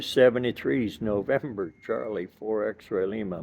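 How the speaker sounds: teeth chattering from the cold; shivering voice, teeth chattering. Real, not acted. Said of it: "My teeth are chattering".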